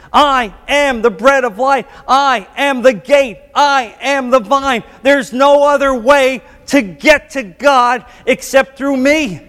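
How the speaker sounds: high, slow preacher's declaration; ringing, deliberate quotation of scripture; emphatic proclamation. Retold or imitated. Preacher voices Jesus' emphatic claims.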